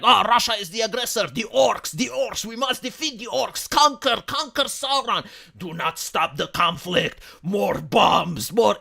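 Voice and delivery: mock hostile Twitter user. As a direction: parody an overwrought online warrior. Mocking hostile Twitter users.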